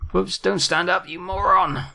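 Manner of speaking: high-pitched, panicky telling-off; real flustered yelp at own blunder; alarmed self-scolding. Real, not acted. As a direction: scold yourself in sudden alarm. Scolds own character for standing up.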